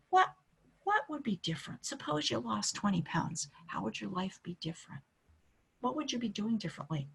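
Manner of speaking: soft, gentle questioning voice; quiet curious coaching questions; doctor's questions. Shown as a demonstration. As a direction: ask them softly and openly, like a coach.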